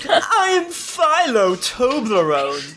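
slow, grand self-introduction; character intro. Acted. Player to party, slow proud character intro. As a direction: announce the name slowly, with a laugh.

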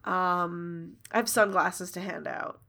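flustered, halting excuse with pauses; awkward recovery. Acted. Jiro excuses himself after the accidental kiss, awkward. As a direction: stall with ums while making an exit. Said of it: "he sort of recovers and is like".

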